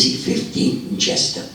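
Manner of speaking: put-on old man with a Jewish accent. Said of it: "drop the Jewish accent".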